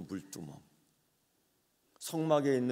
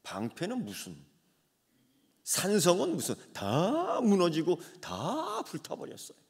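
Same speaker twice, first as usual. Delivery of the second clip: lament; 5 semitones higher than usual. Acted. Mourning the burned city.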